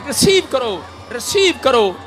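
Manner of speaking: loud, high preaching commands; full-force preaching. Real, not acted. Preacher urging the woman to scream, loud preaching. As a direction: drive the spirit out with shouting.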